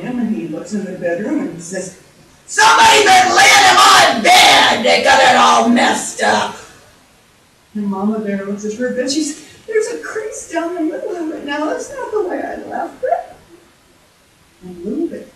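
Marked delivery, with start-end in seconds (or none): 2.5-6.6 big bellowing bear shout; loud acted rage; angry Papa Bear. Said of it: "Papa's really getting angry". 9.7-13.3 high, put-on mother-bear voice; higher voice of dainty dismay; fussy Mama Bear. Mama Bear inspects her bed.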